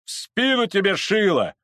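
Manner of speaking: high, loud crowd yells; abusive shouting. Acted. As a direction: shout and curse like a rowdy mob. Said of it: "кричала с бранью толпа".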